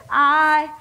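deliberate word-by-word proclamation with pauses; measured, solemn pronouncement broken by pauses; emphatic declaration. Acted. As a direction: declaim it phrase by phrase, landing each one. Preacher declaims Jesus's famous answer.

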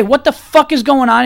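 outraged shout. Retold or imitated. What a witness should shout.

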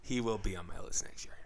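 quick, hushed whisper; whispered aside. Real, not acted. Co-host promises actor for next year's list, quick whisper. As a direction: slip it in fast under your breath. Muttered aside after joke guess.

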